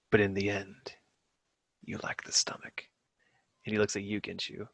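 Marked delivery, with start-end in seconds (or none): 0.1-2.8 menacing whisper. Acted. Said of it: "really deep voice".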